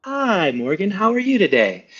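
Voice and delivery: friendly sales-call opener; mirrored phone greeting. Shown as a demonstration. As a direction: greet them back in their own tune. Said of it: "mirroring how they answer the phone".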